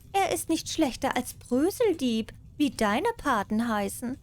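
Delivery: a lightly voiced smug cat. Cat answers mouse, higher voice.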